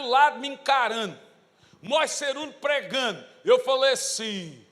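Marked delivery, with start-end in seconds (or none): none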